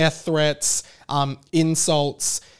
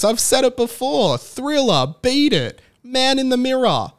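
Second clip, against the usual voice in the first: emphatic rant; 6 semitones higher, 4 dB louder than usual. Real, not acted. Emphatic high-pitched rant.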